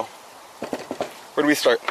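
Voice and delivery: slow, breathy whisper to himself; hushed and drawn out, wondering where to begin; whispered musing. Real, not acted. Fishmonger whispering to himself before cutting.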